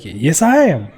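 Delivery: hammy mock-Australian reply; bad Australian accent. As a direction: answer in a badly faked Australian accent. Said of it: "But real bad".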